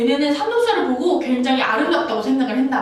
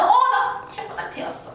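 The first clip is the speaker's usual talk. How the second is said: high, laughing whine; 11 semitones higher than usual. Acted. Acted pain.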